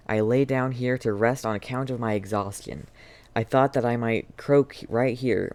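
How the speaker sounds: dying man's letter. Acted. Reads dying man's letter aloud.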